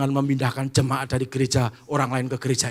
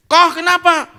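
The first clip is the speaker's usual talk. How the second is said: concerned greeting; 14 dB louder than usual. Acted. Churchgoers greeting each other.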